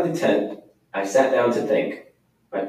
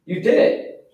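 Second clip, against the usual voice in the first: delighted; 11 semitones higher than usual. Acted. Boy praising pony's success.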